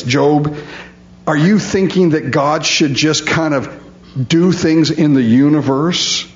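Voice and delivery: mildly mocking string of questions; lightly sarcastic retelling, incredulous questioning. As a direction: imitate a friend needling Job with pointed questions.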